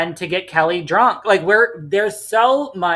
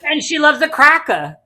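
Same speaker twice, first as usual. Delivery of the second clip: higher, laughing punchline; laughing joke; 10 semitones higher, 5 dB louder than usual. Real, not acted. Co-host joking about Alicia, laughing. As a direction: squeeze the line out through laughter.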